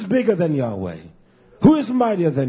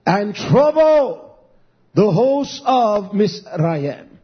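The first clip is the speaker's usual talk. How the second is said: declamatory scripture reading; 4 dB louder, much slower than usual. Real, not acted.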